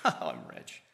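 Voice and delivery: mock smug boast. Mocking the self-satisfied church.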